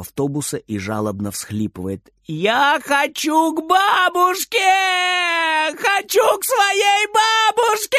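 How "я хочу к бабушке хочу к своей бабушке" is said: put-on high, slow, wailing child's cry; tearful high wail; crying boy. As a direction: sob and shout for grandma like a lost little boy. Lost boy crying for grandma.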